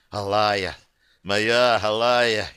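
slow, yearning cry of her name; longing call. Acted. Hero calls beloved in dream.

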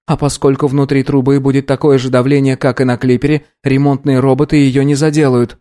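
put-on boy working it out.

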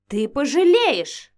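loud, slow, seething threat; mounting rage. Acted. Vampiress threatens the girl, growing rage. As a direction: promise revenge, raging. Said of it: "ещё больше распалялась".

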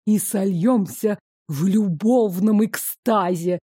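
slow, sultry and languid. Acted. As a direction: drawl it out lazily and seductively. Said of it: "томным голосом".

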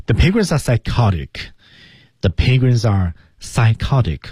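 firm falling The penguins are psychotic. Shown as a demonstration. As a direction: say it with certainty, dropping at the end. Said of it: "降调".

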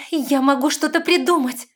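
high, loud offer; urgent plea. A narrator's reading. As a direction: make a last attempt. Last attempt.

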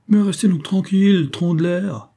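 high, loud reprimand; exasperated scolding. A narrator's reading. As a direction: rein in a hothead, exasperated. Captain restrains the charging hero. (remontrance forte et exaspérée)

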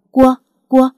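put-on the husband wakes and calls his baby daughter's name, tenderly; tender familiar call. A narrator's reading. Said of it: "Tiếng gọi thân thương quen thuộc".

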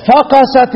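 فقست said as one word from hatching, drawn out; slow demo of فقست as one root word; demonstrated misreading. Shown as a demonstration. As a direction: run فقست together as a single verb. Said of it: "لما نقول، ن-، نيجي نقول إيه".

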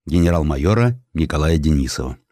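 ordinary talk

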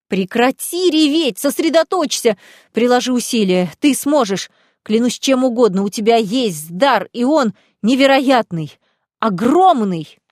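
громкий требовательный крик; fierce shout. Acted. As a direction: shake her out of it with your voice. Shaking crying friend, shouting.

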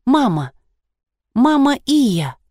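slow, separated words with falling ends; deliberate, simple prompting; very distinct. A narrator's reading. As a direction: spell it out clearly for someone dazed. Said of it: "очень чётко сказала я".

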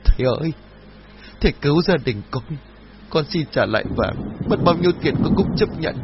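crying out pleading. A narrator's reading. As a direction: wail to the master for help. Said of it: "mụ Trang lại càng khóc lớn".

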